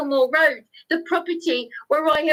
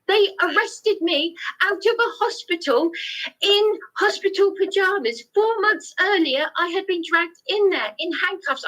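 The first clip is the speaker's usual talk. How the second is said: pitched higher, agitated and pressing; raised upset voice; 4 semitones higher than usual. Real, not acted. Telling the councillor about his arrest, voice raised and upset. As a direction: let the voice climb with the outrage of it. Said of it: "I'm sorry to raise my voice".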